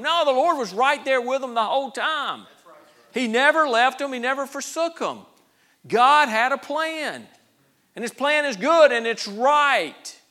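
loud, high, emphatic sermon delivery; impassioned pulpit declaration; forceful preaching. Real, not acted. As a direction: proclaim it at full force, phrase by phrase.

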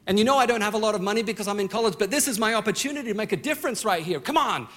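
half-joking complaint pushed out fast; frustrated prayer. Retold or imitated. Young man griping to God over a dead lawnmower, mock frustrated. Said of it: "frustrated conversations with God".

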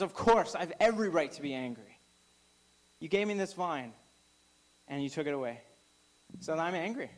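a burst of indignant anger, then settling, fast at first; angry retort. Retold or imitated. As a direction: speak as Jonah, fed up and resentful. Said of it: "He responds out of anger".

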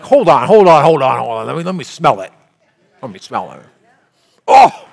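sniffing the milk. Retold or imitated. Sniffing spoiled milk for the congregation, loud recoil. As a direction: stop everyone, sniff, recoil. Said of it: "You'd be like".

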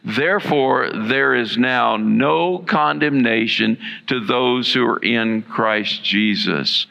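slow, measured reading of scripture aloud; slow scripture recitation with the congregation; slow unison reading. Shown as a demonstration. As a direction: read it slowly, leading the room in unison. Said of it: "read that with me aloud together".

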